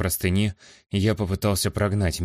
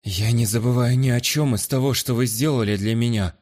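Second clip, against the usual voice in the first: higher, tense voice of an uneasy guest; nervous guest voice; 5 semitones higher than usual. Acted. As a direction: plead politely, on edge. Guest's character voice.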